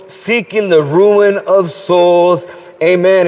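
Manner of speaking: measured solemn invocation; recited prayer. Acted. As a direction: lead the congregation in earnest prayer. Leads the prayer.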